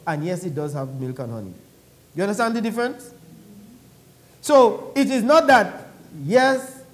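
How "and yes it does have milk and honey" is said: low, soft afterthought. Shown as a demonstration. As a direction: tack it on as a minor concession. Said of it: "That's just a by the way".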